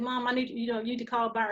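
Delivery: soft, feeble request from a sickbed; weak quiet voice. Retold or imitated. Patient asks her mom to call her brother, faint and weak. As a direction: ask with what little strength is left. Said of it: "this is exactly how I'm talking".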